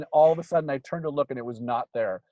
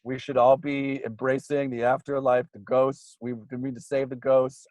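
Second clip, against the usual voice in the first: mock preacher; 3 semitones lower than usual. Mocking people who preach about ghosts, lightly hammed-up. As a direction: preach it like a half-joking believer.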